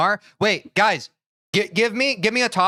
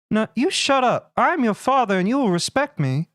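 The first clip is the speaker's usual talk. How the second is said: mock stern dad; 3 semitones higher than usual. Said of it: "Giving your son life lessons".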